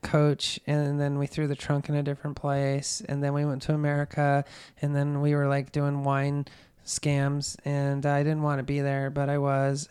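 even, unemotional list of events; totally flat telling. Retold or imitated. Suspect telling police about dumping body, totally flat. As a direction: recite it without reacting. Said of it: "totally flat telling this".

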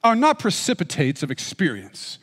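a hint of an old lecturer quoting; playing Freud reading his own words, barely changed; imitating Freud. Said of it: "I don't know if he talked like this. I'm doing my best".

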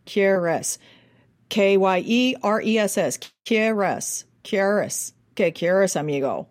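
quieres with an Irish tapped R, repeated; Irish-accented Spanish. Shown as a demonstration. Coach drills the actor's line, mild Irish accent. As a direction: put an Irish lilt on quieres. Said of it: "we gotta put your Irish on it".

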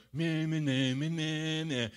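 high, drawn-out sing-song taunt; teasing playground chant; taunting kids. Retold or imitated. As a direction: mimic children jeering from a safe spot. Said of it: "stand up here and go".

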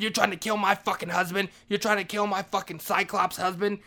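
high, loud indignant shouting; outraged accusation. Retold or imitated. Maria accusing the man who poisoned her husband, outraged shout.

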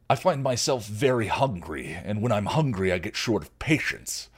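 lightly voiced threatening troll; a hungry warning; menacing troll.

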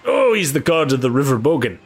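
lightly voiced river boatman; earnest, lively protest from a simple bargeman; superstitious boatman. Boatman explains river god.

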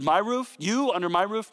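"my" punched, a startled rising question; stress on my. Retold or imitated. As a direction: hit "my" as if shocked at the idea. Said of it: "He emphasized the word my".

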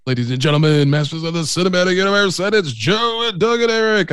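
rising, slowing ring announcer call; wrestling announcer. Retold or imitated. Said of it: "You sound like a, a wrestling announcer".

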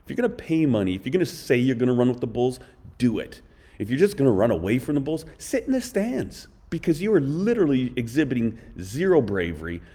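mock-angry lecture to a coward; scolding rant. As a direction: tear into him for running away. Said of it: "I'm like".

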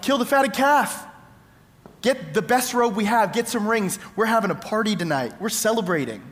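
a father calling out orders for the party; retold joyful yelling. Overjoyed father calling to the servants to prepare a party. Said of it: "He's yelling to the servants".

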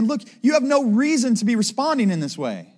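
mild, insistent scolding; rebuke. Acted. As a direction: reprove them point by point. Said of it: "It's a rebuke".

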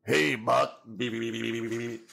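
put-on cartoon robot voice with rapid beeping; little robot greeting, then monotone stuttered beeps; Buck Rogers robot. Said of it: "more like the robot from Buck Rogers".

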